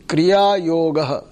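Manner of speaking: Kriya Yogaha spoken word by word, Kriya stressed; staccato. Shown as a demonstration. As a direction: Kriya Yogaha, each word kept separate. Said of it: "you repeat after me one word at a time".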